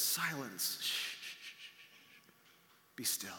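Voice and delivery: soft, low shushing, fading to a whisper; quiet the storm gently; Jesus hushing the storm, soft and low; calm hush. Acted.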